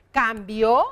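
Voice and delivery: "Cambió" with weight on a rising "bió"; stress on final ó. Shown as a demonstration. Teacher giving another accented past verb, "Cambió" stressed on the ó. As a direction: land firmly on the ó of "Cambió". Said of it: "también es otro verbo en pretérito".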